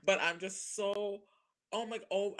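retold starstruck rambling; starstruck gushing. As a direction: apologise while totally starstruck. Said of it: "I was like".

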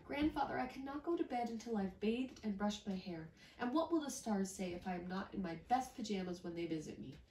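put-on a child who cannot sleep yet; little girl voice. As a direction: rattle it off like an eager little girl. Miyuki voice.

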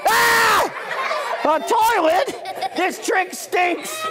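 hammed-up outrage at the trick; mock surprise. Mock shock at toilet again.

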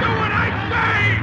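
captain-like shout in the gale; shouted order. Acted. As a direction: bellow over the storm. Commanding in the storm.

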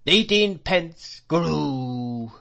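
high, loud, slow singsong; tuneful wailing whine. A narrator's reading. Old shopkeeper haggling down the price, tuneful wail. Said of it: "delivered in a sort of tune".

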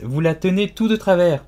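high-pitched urgent warning; crying out. A narrator's reading. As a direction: call out in alarm. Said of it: "cria Alice".

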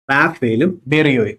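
റാഫേലും ബെറിയോയും said slowly, each name spaced out; slow repeat for memory. Shown as a demonstration. Teacher drilling ship names for students, slowly. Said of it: "കൂടെ ഉണ്ടായിരുന്ന കപ്പലുകളാണ് റാഫേലും".

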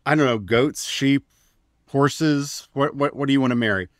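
mock God musing. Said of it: "God sitting back going".

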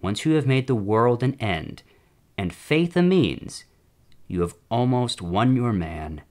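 measured dramatic reading of a letter; letter read aloud. Acted. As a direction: read it out formally, phrase by phrase. Reads a demon's letter aloud.

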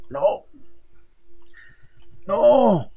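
a sharp, rising cry of dismay; shouting. Real, not acted. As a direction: yell it out as everything goes wrong. Character falls.

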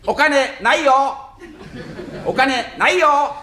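slow refusal. Acted. Yamada refusing slowly.

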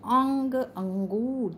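slow "अंग अंगूर", the अं hummed through the nose; nasal demo. Shown as a demonstration. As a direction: drag out "अंगूर" so the nasal sound rings. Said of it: "आप बोल के देखना". ("अंग अंगूर" धीरे से, नाक से गूंजती आवाज़ में)

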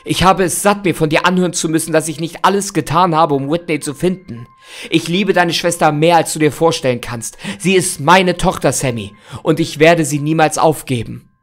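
angry. Acted. Angry father defending himself.

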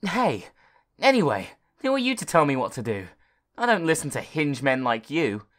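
quick mock-angry boy; raging boy. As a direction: snap back at the bossy computer. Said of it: "raged Mister Smart".

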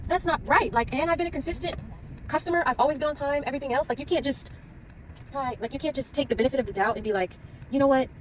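the loyal customer arguing with the nail lady, upset and high-pitched. Retold or imitated. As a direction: pitch climbing high, indignant protest. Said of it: "so I'm starting to get upset".

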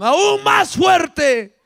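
high, drawn-out words swelling upward; emphatic rise. Retold or imitated. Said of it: "gritaba a todo pulmón".

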